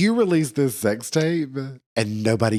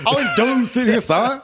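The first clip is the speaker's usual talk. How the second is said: dude voice; 10 semitones higher than usual. Pretend. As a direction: put on a hammed-up dude voice. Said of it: "You're working on your dude voice".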